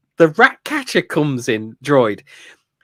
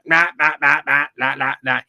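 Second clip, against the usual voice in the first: robot voice impression. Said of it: "he speaks like, uh, the old Smash T V advert".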